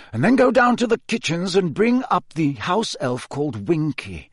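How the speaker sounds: high, deliberate instructions; commanding old headmaster. Acted. Dumbledore sends Snape and McGonagall on errands, commanding. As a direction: give orders firmly and politely.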